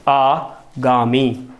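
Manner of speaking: आगामी very slowly; correct form, slow. Shown as a demonstration. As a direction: draw out आगामी as the right form. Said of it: "शब्द क्या होता है हमारा?". (आगामी सही, बहुत धीरे)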